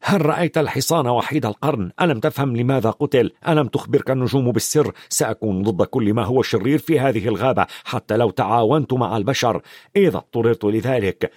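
ordinary delivery

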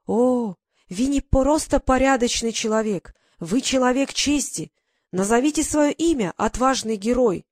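a foreigner lavishing praise in broken Russian; admiring broken Russian. Acted. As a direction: foreign officer asks his rescuer's name in broken Russian. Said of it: "Он говорил на ломаном русском".

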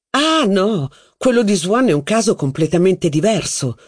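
a noblewoman brushing the point aside; protesting duchess. Acted. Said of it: "protestò la duchessa".

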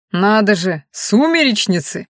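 eager interest. Acted. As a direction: lean in with greedy curiosity. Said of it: "с жадным интересом подался вперёд".

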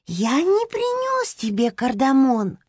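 slow, high hamster voice, calm and patient; patient repeat. Acted. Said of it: "терпеливо повторил Топинат". (терпеливо, спокойно)

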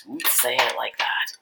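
slow, embarrassed complaint. Acted. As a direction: mutter it, a little flustered. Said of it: "embarrassment was audible in his voice".

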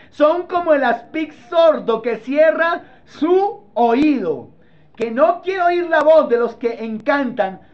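preacher hammering out the verse; emphatic scripture preaching. Acted. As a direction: drive each phrase home from the pulpit. Reads psalm aloud forcefully.

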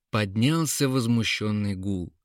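ordinary delivery, nothing marked

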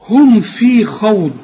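slow هم في خوض with a full ض; تلاوة بطيئة لخوض; slow recitation demo. Shown as a demonstration. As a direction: recite في خوض slowly, press the ض. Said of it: "طلع لسانك في الدال".

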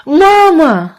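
put-on high, loud call of a child; a girl shouting after her mother; crying out. A narrator's reading. Girl calling out to her mother, high and loud. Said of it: "закричала Каролина".

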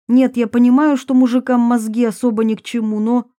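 mildly exasperated put-down; lightly voiced scornful Varvara. Varvara mocks men's brains to her cousin, mildly scornful.

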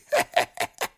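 беззвучный злой смех; смеётся над жертвой; злорадный смешок. A narrator's reading. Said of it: "Шейх снова рассмеялся". (злорадный смех Шейха)

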